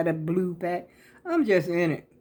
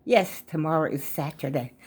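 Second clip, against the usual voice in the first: talking around a wad of gum; chewing gum. Real, not acted. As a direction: chew gum while you speak. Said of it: "Let me get rid of this gum".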